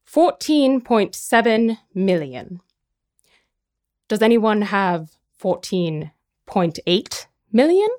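slow, measured mock auctioneer with long pauses; leisurely bid-calling, question lifting at the end; Sotheby's auctioneer impression. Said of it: "the Sotheby's is more like".

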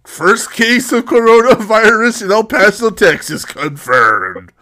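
loud, high breaking-news announcer; news anchor voice. Acted.

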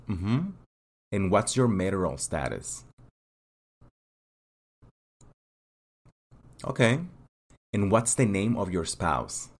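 calm, businesslike interviewer running through the questions, pausing for answers; immigration officer. Acted.

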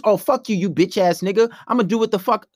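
mock heated insults; cursing girlfriend. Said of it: "if she continues".

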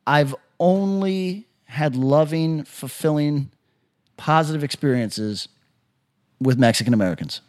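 slow, earnest, careful; slow earnest statement. Pretend. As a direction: lay it out slowly and sincerely. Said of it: "What if I say".

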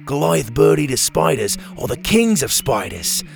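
enthusiastic scientist. Acted. Doctor Rex telling Bo about tarantulas, eager lightly voiced expert. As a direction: gush about the spiders' legs.

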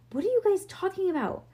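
high, quick, incredulous question; baffled protest. A narrator's reading. Leo looking at his captors, baffled protest. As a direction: demand an explanation in high-pitched disbelief.

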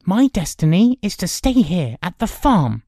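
high, loud youthful declaration; firm announcement. A narrator's reading. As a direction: declare it firmly as a boy would. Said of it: "he announced firmly".

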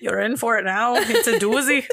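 hammed-up Irish lilt; mock Irish voice; accidental Irish accent. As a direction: slip into a playful Irish accent. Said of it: "I think I'm turning Irish".

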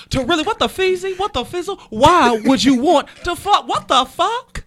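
high squealing what the fuck; mock outrage. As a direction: squeal it up high in fake shock.

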